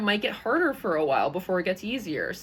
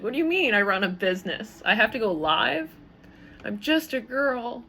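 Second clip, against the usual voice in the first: mock helpless girl; 4 semitones higher than usual. Host mocking her fear of running a business, in a small helpless girl voice. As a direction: play a little girl lost in the grown-up world of business. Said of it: "like a field mouse in a woman's suit".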